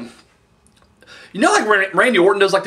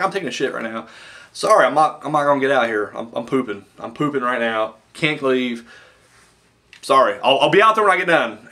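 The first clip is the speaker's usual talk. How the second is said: mock referee excuse; 4 semitones lower than usual. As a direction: mumble excuses from the bathroom. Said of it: "the Japanese referee's just like".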